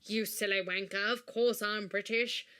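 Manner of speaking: breezy put-on British chat; British accent. Caller asks donor for money, breezy British accent. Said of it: "I don't remember you being British".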